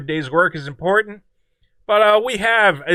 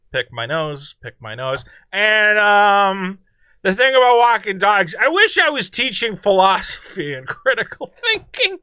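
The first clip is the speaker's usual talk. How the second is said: lightly mocking impression of an interviewee; halting, drawn-out mock dog walker; hammed-up awkward interviewee voice; Doreen impression. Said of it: "do my best Doreen impression".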